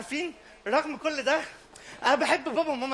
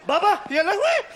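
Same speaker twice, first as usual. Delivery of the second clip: put-on panicked child; 7 semitones higher, 4 dB louder than usual. Kid panics at father.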